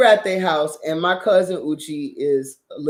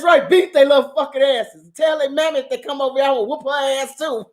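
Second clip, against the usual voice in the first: hood mama; 6 semitones higher than usual. Retold or imitated. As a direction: urge the kids to fight. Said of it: "turned into straight hood mama".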